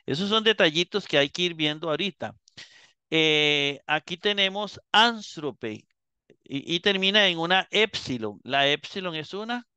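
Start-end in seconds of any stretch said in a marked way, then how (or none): 4.9-5.8 anstrope said slowly, stressed on its first syllable, AN. Shown as a demonstration. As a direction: keep the accent on the AN of anstrope. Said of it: "se mantiene el acento en la an". (anstrope despacio, con el acento en AN)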